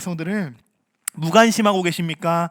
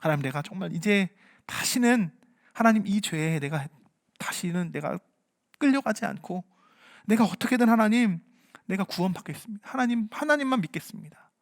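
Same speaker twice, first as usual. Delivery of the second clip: acted prayer; 6 dB quieter than usual. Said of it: "여러분 기도하는데".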